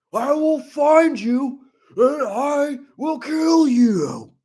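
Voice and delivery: put-on high, drawn-out kid tantrum; loud, hammed-up raging gamer kid; Waffle Pone. Imitating a kid betrayed by his team, shrieking tantrum. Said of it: "do my Waffle Pone impersonation".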